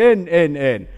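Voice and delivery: imitating a boy refusing his mother in the street; child's refusal. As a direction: mimic a defiant little boy yelling no. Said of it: "aina vaan huusi".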